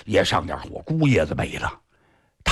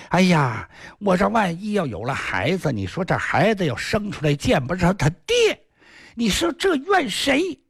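lightly voiced fretting wife, rising high at the end; half-crazed wife; 5 semitones higher than usual. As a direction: fret aloud as if a little unhinged. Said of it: "都有点神经了". (有点疯癫地念叨的媳妇)

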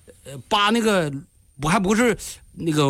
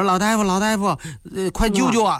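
higher-pitched, mildly tearful begging; retold tearful plea; 4 semitones higher than usual. Old villager begs the doctor to save his wife, retold tearful plea. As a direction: imitate an old villager pleading, lightly tearful. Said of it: "有一个老人就带着一个哭腔".

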